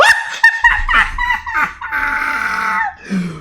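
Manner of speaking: high screeching burst of laughter. Real, not acted. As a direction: howl with laughter at the clip. Reacting to Doctor Phil arrest.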